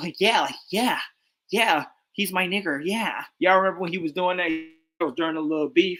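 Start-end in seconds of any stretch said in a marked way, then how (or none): 0.2-3.2 higher put-on California Valley girl voice. Mocking how a rapper talks, like a chick from California. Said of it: "like a chick, like, from California".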